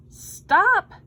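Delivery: sharp high shout of Stop; boy shouting stop; cried out. A narrator's reading. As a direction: yell it to halt them. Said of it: "cried Louis".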